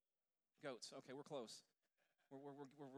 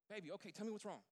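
higher and louder, rushing to make up; eager pleading; 6 semitones higher, 6 dB louder, faster than usual. Retold or imitated. Husband pleading with upset wife, eager and loud. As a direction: coax her into talking it out.

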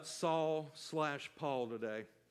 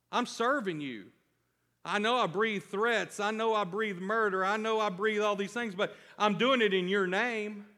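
voicing Saul; 4 semitones higher, 4 dB louder than usual. Preacher voices Saul's inner defense.

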